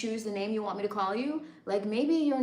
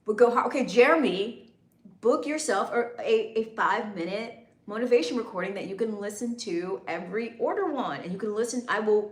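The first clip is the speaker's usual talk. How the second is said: stern voice. Shown as a demonstration. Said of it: "You like the stern voice".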